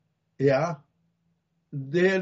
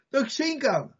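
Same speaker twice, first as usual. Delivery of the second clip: pleading; 7 semitones higher than usual. Retold or imitated. Blind man answers Jesus.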